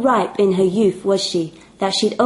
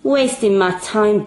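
muttering. Acted.

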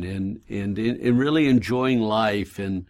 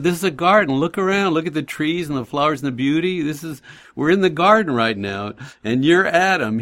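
excited; 4 semitones higher than usual. Retold or imitated. Retold enthusiastic talk to neighbor.

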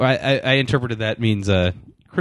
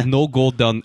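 mock Eastern European accent; slower than usual. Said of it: "turning into, like, a Eastern European accent".

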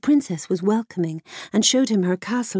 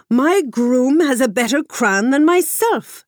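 put out; 5 semitones higher, 5 dB louder than usual. A narrator's reading. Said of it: "much put out by the whole matter".

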